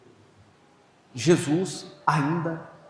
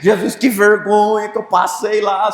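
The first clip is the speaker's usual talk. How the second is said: complaining to Jesus; 5 semitones higher, 7 dB louder than usual. Retold or imitated. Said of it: "reclamando com Jesus".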